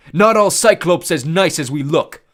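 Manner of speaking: put-on high, loud, slow childlike voice; simple gentle giant. A narrator's reading. Tyson scolding the fallen Cyclops, childlike. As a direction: scold like a big kid.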